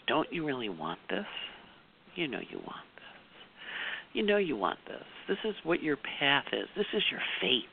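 very soft, intimate near-whisper; hushed, coaxing whisper; imitated whisper. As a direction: murmur it like a secret in someone's ear. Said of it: "whispers in each of our ears".

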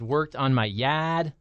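put-on a touch of Boston accent. Lawn care ad read with a hint of Boston accent. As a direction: drop the R, Boston style. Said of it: "There's your Boston right there".

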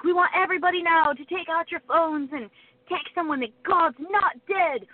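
lightly put-on Australian concert frontman; a hint of Australian, addressing the crowd; imitated Australian accent. Singer tells the concert crowd to text someone, light Australian accent. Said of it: "that's why he sounds like that".

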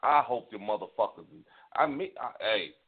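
heated, cursing rant at the culprits; a real angry rant; angry tirade. Real, not acted. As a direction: vent your fury in a long tirade. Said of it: "That was my tirade".

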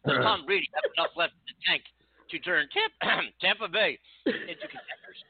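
mock sportscaster, pitch climbing high; hammed-up play-by-play call; frantic mock sports commentary. Shown as a demonstration. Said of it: "talk like a sportscaster".

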